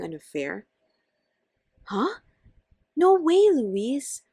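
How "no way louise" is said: high loud no way; loud denial. Acted. Andrea loudly denying an affair to Louise. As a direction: deny it hard.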